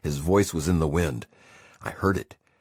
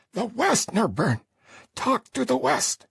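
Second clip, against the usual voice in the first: put-on higher, pressing old man coaxing; 3 dB louder than usual. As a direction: coax him gently toward prayer. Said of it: "Dan coaxed".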